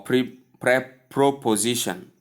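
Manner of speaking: "proposition" said in place of preposition, after false starts; common mispronunciation. Shown as a demonstration. Teacher quoting most people's version, mispronounced as proposition. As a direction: stumble on "pre-", then say "proposition" with "pro". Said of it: "as most people call it".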